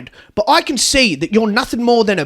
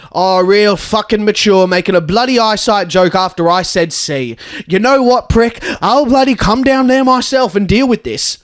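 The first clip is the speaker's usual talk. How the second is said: angry yelling; 3 dB louder than usual. Acted. Angry at principal on phone.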